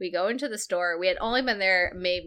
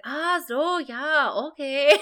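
high-pitched, louder butcher catching on; dawning understanding; 8 semitones higher, 5 dB louder, slower than usual. Retold or imitated. Butcher finally understands the customer's charades, high dawning realization. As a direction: imitate sudden comprehension, pitched well up.

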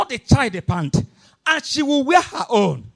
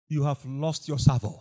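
a much lower, softer rebuke; hushed rebuke; 12 semitones lower, 10 dB quieter than usual. Acted. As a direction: lay it down quietly and heavily. Repeated rebuke, first take hushed.

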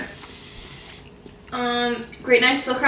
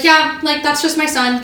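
imitating friend's mom; 4 semitones higher, 4 dB louder than usual. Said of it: "She's like".

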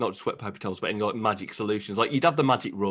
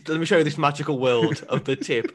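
laughing wonder; 3 semitones higher, 3 dB louder than usual. Pretend. Parent showing kid tip.

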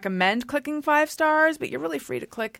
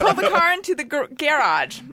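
laughing; 4 semitones higher than usual. Real, not acted. Laughing at word game.

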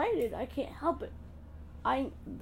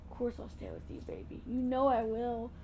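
hushed and tender, calming a scared little one; soft reassuring mother; 2 semitones lower, 4 dB quieter than usual. Pretend. Mother calms her worried child before surgery, hushed and tender. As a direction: soothe him softly, much quieter.

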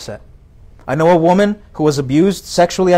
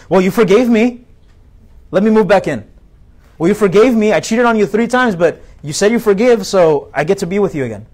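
mocking a loser boyfriend; 3 semitones higher than usual. Boyfriend pleading with girlfriend to move back, mock whiny. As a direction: play the entitled ex begging back in. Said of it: "I've heard some loser guys tell their girlfriend".

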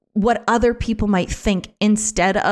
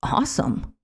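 one breathy word under the breath; whispered awesome; 6 dB quieter than usual. Retold or imitated. Shopper imagines skipping the holidays, whispered reply. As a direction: let it slip out as a relieved whisper. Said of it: "And they're like".

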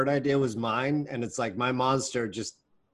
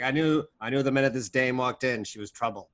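noir detective. Retold or imitated. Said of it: "a private eye".

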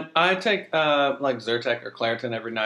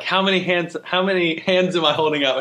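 louder, higher prank quiz; mock questioning; 5 semitones higher, 4 dB louder than usual. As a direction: play at testing someone's eyesight, loudly. Acted prank on confused elderly people.

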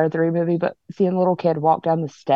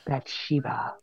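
creepy hushed name call; heavy breathing phone whisper; 4 semitones lower, 11 dB quieter, slower than usual. Pretend. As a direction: breathe the name like a prank caller. Summoning the ghost to tease.

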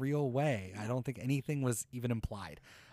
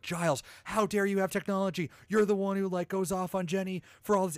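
mock outrage; 6 semitones higher than usual. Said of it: "I was so excited".

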